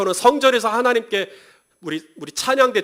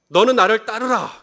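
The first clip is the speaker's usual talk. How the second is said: louder, higher stern command; commanding Jesus; 4 semitones higher, 6 dB louder than usual. Acted. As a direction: order him to follow, firmly. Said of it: "예수님도 우리에게 이렇게 말씀하신".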